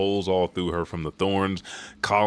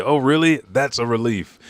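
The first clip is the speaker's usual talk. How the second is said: high, loud reaction; acted relieved surprise; 5 semitones higher, 6 dB louder than usual. Crowd hearing children are safe, surprised relief. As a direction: pitch up the question, then ease down.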